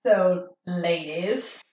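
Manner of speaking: mock nervous speech before a rap; stage fright. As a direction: play up the nerves before performing. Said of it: "I'm so nervous".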